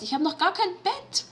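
high panicked repeat; panicked realization. Real, not acted. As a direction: say it again in rising panic. Panicked repeat of same words.

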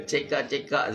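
sambil ketawa kecil menyebut cik kak; laughing. Retold or imitated. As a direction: ketawa geli hati semasa membetulkan panggilan. Teasingly correcting cik abang. (ketawa kecil ketika menukar panggilan kepada cik kak)

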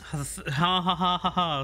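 dry fake ha ha; sarcastic laugh. Real, not acted. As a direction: laugh without meaning it.

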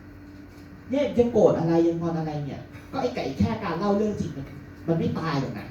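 mother's slow teasing. Retold or imitated. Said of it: "มาถึงแม่บอก".

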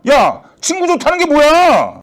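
high, stretched-out protest; heated appeal. Acted. Caller appealing to friendship in a quarrel, exasperated. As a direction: drag out the plea in exasperation.

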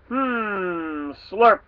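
slurpy piggy hum; pig slurping. Acted. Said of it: "geschnozzled this visitor".

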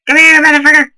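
loud angry shout. Real, not acted. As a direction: yell it at the enemy. Chasing enemy, louder.

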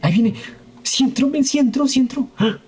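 high, rising excitement; excited. Real, not acted. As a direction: cheer it in, getting thrilled. Crocodile finally enters the shed.

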